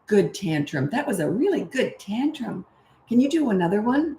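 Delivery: sarcastic praise, gushing a little; a mild send-up of over-praising; mock coddling. Parent mocking the coddling message, mildly sarcastic. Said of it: "I'm not gonna coddle them".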